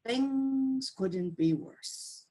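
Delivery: a man at the end of his rope, very slow; weary despair. Acted. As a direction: drag it out slowly, defeated.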